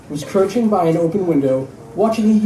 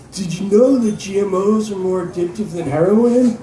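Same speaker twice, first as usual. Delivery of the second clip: slurred voice; 4 semitones higher than usual. Acted. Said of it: "a slurred voice".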